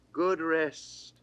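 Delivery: plain reading voice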